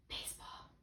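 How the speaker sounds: breathy whispered word, no voice; whispering. Shown as a demonstration. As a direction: whisper it quietly from behind. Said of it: "I'm gonna whisper a different word".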